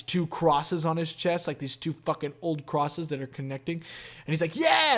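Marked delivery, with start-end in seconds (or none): 4.5-5.0 high-pitched mock cheer; imitated cheer. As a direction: imitate a hyped dude, pitched way up. Acting out tattooed man's cheer.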